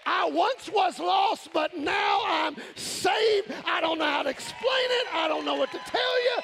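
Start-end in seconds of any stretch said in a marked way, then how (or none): 0.0-3.5 slow, higher, louder proclaiming shout; joyful proclamation. Acted. Preacher testifying to the congregation, slow joyful shout. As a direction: proclaim it slowly with full joy. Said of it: "I'm just like".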